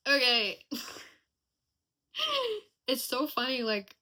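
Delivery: real laugh around the words. Real, not acted. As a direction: let real laughter break through the words. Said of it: "I'm laughing".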